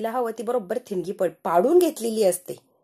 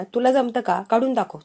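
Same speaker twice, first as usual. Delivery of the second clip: louder challenge. Retold or imitated. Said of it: "सारखी मला नावं ठेवते".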